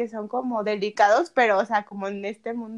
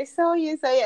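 excited meme voice; 5 semitones higher than usual. Retold or imitated. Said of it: "me sentía como el meme".

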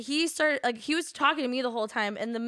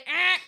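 short mock buzzer; imitated "wrong answer" buzz; buzzer noise; 6 semitones higher, 4 dB louder than usual. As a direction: cut in with a reject buzzer. Mimicked buzzer in game rules.

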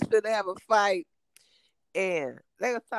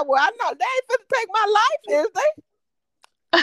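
retold worry; 12 semitones higher, 5 dB louder than usual. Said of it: "and I".

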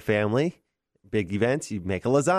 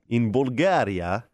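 grand slow Bulgaria; slower than usual. Pretend. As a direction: savour "Bulgaria", slowly and grandly. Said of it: "You just wanted to say Bulgaria like that".

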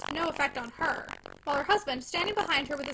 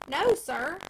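indignant; 3 semitones higher, 5 dB louder than usual. Acted. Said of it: "rather indignantly".

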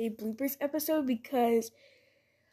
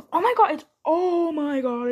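startled panic; 2 semitones higher, 6 dB louder than usual. Real, not acted. Realizes she's late.

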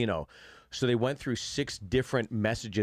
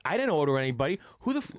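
imitated indignant protest, jumping higher; rising, half-serious outrage; mock angry outburst; 5 semitones higher, much faster than usual. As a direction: act out a man losing his temper at a stranger. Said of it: "he doesn't temper it".

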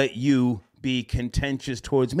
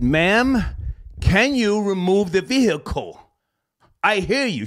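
raised, higher, firm demand to the agent; retelling a firm demand to the insurance agent, louder; exasperated retold demand; 6 semitones higher, 3 dB louder than usual. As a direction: press the agent hard, losing patience.

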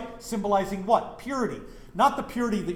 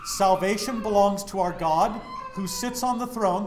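raised voice, crying out the praise; loud cry of praise; 4 dB louder than usual. Acted. Preacher quoting the crowd before the throne, loud proclamation. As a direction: proclaim it loudly from scripture. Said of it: "They cried out in a loud voice".

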